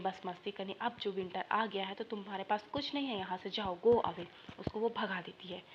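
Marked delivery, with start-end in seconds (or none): 2.0-4.3 louder send-off, mildly acted; scolding dismissal. Teacher retells the ant driving the grasshopper away, scolding. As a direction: order them off with more volume. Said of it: "सारा चीज़ वो डांटती है".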